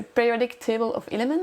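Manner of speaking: French speaker's proud English accent; a light, self-mocking attempt at an English accent. Shown as a demonstration. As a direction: say it in your best English accent. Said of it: "avec mon bel accent anglais".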